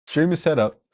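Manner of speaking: said through a laugh, falling at the end; laughing relief. Real, not acted.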